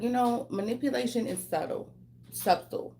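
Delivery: talking around freshly tightened braces; sore jaw from braces. Real, not acted. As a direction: struggle to shape the words with a sore jaw. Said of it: "I just got my braces tightened".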